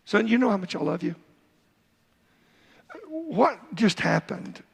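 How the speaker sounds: a hint of a tender father calling his son over; loving father. Shown as a demonstration. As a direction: speak to the boy tenderly, like a loving dad. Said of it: "a loving way".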